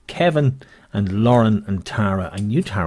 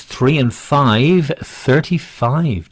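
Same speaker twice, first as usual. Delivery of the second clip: bingo caller; 3 semitones higher, much slower than usual. Acted. Bingo call drawn out.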